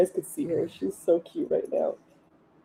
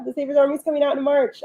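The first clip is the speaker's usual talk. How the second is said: higher, fast and thrilled; excited; 6 semitones higher, faster than usual. Shown as a demonstration. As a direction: rush it out, bubbling over.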